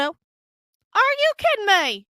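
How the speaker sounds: a slow, delighted squeal of disbelief; drawn-out disbelief. Real, not acted. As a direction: drag it out, thrilled at the photo. Marvelling at her photos.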